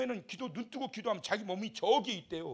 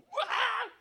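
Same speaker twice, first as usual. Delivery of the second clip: wail; 4 dB louder than usual. Retold or imitated. Jesus' fervent prayer evoked.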